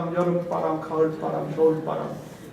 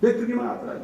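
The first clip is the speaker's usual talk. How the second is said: 메뚜기만 하더라 lifted high with weight on 메뚜기만; mock spies' lament, pitched up; high emphatic repeat; 6 semitones higher than usual. Shown as a demonstration. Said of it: "메뚜기 컴플렉스란 말이 나온 거예요".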